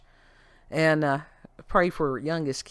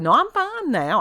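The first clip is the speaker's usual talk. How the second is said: higher, louder retold assurance; insistent fib; 12 semitones higher, 7 dB louder than usual. Lying to get out of sitting there, retold insistent fib. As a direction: imitate yourself insisting all is well. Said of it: "I finally lied and said".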